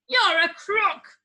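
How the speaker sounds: loud, high, slow shout; angry shout. A narrator's reading. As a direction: bellow it from the crowd. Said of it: "another man shouted".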